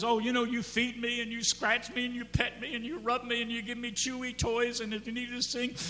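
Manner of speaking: lightly voiced eager dog, a bit high; adoring dog. Dog lists owner's kindnesses, lightly acted adoration. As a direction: run on like a grateful dog. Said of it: "The dog says".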